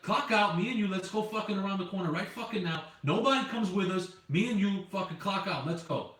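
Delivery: flipping out. Retold or imitated. Driver retells calling coworker round the corner, flipping out. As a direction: urge him outside, worked up. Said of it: "I fucking flipped".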